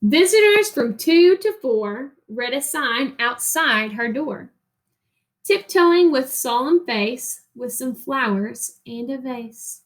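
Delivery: put-on reading a picture book to children, rhythmic and lilting; expressive read-aloud narration; story reading. Reads story aloud to class.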